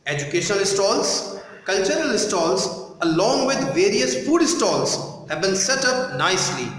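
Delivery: slow, measured classroom reading; textbook read-aloud. Shown as a demonstration. Teacher reads the passage for students to follow, slow textbook read-aloud. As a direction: read slowly with deliberate pauses between phrases.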